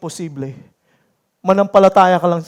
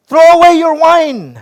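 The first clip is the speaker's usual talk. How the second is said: a touch of a harsh priest scolding, louder; stern demand; 6 semitones higher, 7 dB louder, slower than usual. A narrator's reading. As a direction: read it as a firm rebuke. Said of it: "he demanded". (mahigpit na utos)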